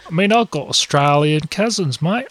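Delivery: attempted Aussie accent; Australian accent. Podcaster struggling with the accent, imitating an Australian. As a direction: have a go at sounding Australian. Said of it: "speak like that".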